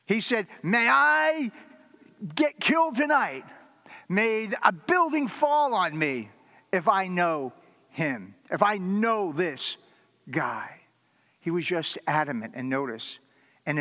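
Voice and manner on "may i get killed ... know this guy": a frantic Peter swearing he never knew him; cursing denial. Acted. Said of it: "heaped curses on himself".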